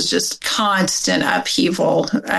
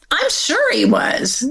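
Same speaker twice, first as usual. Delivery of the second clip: higher, flat certainty; certain mother; 8 semitones higher than usual. Retold or imitated. Mother telling the family, dead certain. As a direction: state it like settled fact. Mother flatly accuses her brother.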